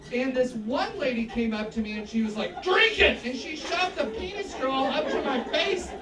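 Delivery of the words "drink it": mock masculine bellow, raised and punchy; masculine-voiced woman. Pushy bachelorette shoving a straw at comic, mock masculine command. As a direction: order it like a pushy, masculine lady. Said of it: "That's a very masculine voice".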